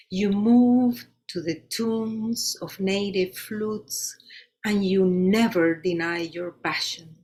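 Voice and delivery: measured poetry reading with firm line openings; poem recitation. Acted. Poet saluting her Caribbean sister at an open mic, measured recitation. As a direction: recite it line by line, pausing between images. Reads own poem aloud.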